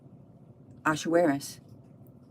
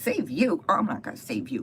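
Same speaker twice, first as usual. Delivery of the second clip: mock incredulous echo, pitched up; 3 semitones higher than usual. Esther answers Haman's plea, mock incredulous.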